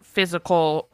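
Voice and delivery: put-on halting, drawn-out confession with a Minnesota accent; lightly Minnesotan, pausing between the admissions. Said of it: "I have to do a Minnesota accent".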